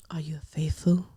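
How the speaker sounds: low, hushed posh voice; Claudia impression. Mimicking the host for a co-host, low posh voice. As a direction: put on a low posh presenter voice. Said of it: "I can't do a good impression of her".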